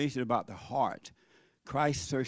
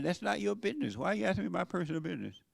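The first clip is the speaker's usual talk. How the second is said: firm retort; 4 semitones higher, 3 dB quieter, faster than usual. Retold or imitated. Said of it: "rather than saying".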